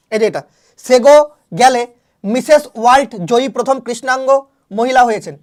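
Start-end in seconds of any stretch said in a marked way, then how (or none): 0.9-1.8 সেগো গেলে said loudly with সেগো rising sharply; name pronunciation. Shown as a demonstration. Teacher showing students how to say the name, loud. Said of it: "আমি দেখেছি এটা".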